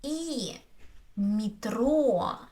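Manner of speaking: "и", then "метро" as mee-TRO; unstressed е as и. Shown as a demonstration. Teacher explaining the vowel, "и" then "метро" with ee. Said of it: "so I say".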